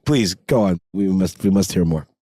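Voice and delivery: mock solemn demand to keep reading; mock dramatic. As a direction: play the grave, intrigued lord. Host hamming up eager listener.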